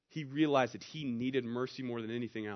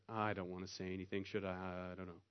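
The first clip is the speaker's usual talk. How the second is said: low, very soft inner voice; hesitate, almost too quiet to hear; timid reluctance; 6 semitones lower, 12 dB quieter than usual. Acted. Reluctant churchgoer sinking in seat.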